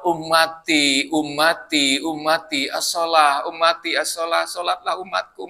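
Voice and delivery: slow, fading cry of ummati; dying Prophet's plea. Retold or imitated. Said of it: "eh malah".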